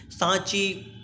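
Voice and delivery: slow, clear सांची with a long आ; model pronunciation. Shown as a demonstration. Teacher saying सांची slowly for students to repeat. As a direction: stretch out सांची for the class. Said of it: "जैसे हम बोलते हैं, वैसे आपको बोलना है".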